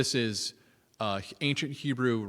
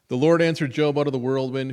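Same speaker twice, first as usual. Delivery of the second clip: booming scripture reading; 8 dB louder than usual. Acted. Reading God's rebuke from Job.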